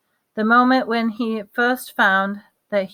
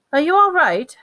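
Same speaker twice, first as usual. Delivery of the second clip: concerned; 9 semitones higher, 6 dB louder than usual. Acted. Lupin checks on fallen Harry.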